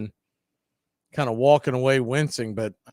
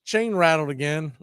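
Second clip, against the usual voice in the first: Harper quote; 7 semitones higher than usual. Retold or imitated. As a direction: toss it off like a player who wants no trouble. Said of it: "Harper's like".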